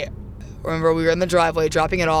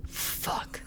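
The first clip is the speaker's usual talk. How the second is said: dismayed curse; 16 dB quieter than usual. Retold or imitated. Dad sees the knee.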